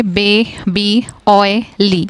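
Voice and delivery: put-on "baby, oily" broken as "bay... bee, oy... lee"; split into syllables. Shown as a demonstration. Teacher illustrates two syllable words, "baby, oily" split in beats. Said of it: "जब two syllable words होंगे".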